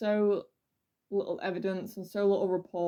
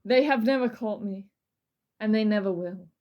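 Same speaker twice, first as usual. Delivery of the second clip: louder, menacing proclamation; dramatic reading; 3 dB louder than usual. Acted. Host dramatically reading the Axeman letter, louder and menacing. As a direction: boast like an uncatchable killer. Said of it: "This is a dramatic reading".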